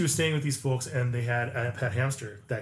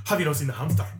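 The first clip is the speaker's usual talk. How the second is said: put-on light Scottish accent; 3 dB louder, much faster than usual. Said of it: "They're just saying".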